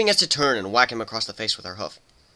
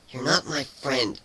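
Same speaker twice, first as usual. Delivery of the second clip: growled; 3 semitones higher, slower than usual. Acted. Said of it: "Kuno growled".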